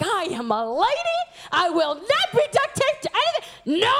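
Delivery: hammed-up, emphatic refusal; mock indignation. Lady refusing to be duct taped, mock indignant. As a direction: protest like an affronted lady.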